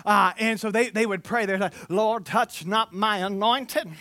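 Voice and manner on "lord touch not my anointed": slow, mock-tearful church prayer; pious prayer voice. Preacher imitating church folk praying for harm. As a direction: ham up a charismatic prayer. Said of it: "my religious voice".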